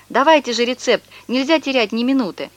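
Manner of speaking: mild urgent cry; shouting. Acted. Boy urges the stranger to hurry, mild urgent shout. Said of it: "Я крикнул".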